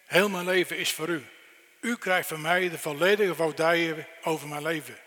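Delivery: a loud heartfelt prayer of surrender; earnest prayer. Pretend. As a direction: pray it out with full heart. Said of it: "Eigenlijk moet je zeggen".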